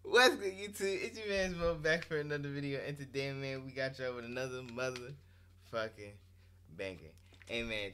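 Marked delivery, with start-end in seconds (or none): 0.0-2.8 hype intro. Real, not acted. YouTuber intro greeting.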